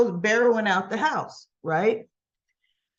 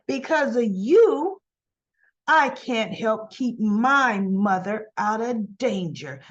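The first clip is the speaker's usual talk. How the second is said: slow, emphatic blaming; acted anger; 3 dB louder, slower than usual. Kyle blaming Summer over his mother, acted slow anger. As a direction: drag out the accusation with heavy stresses. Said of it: "That's why I'm mad".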